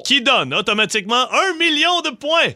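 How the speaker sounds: upbeat host announcing the game; game show host. Acted.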